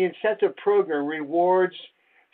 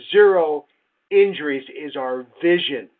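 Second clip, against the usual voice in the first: proclaimed slogan; 3 semitones lower, 5 dB louder than usual. Retold or imitated. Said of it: "we used to talk like that".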